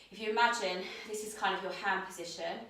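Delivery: winded, breathing hard between words. Real, not acted. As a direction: talk while still catching your breath. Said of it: "I'm really out of breath".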